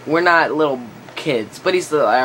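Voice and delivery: usual speaking voice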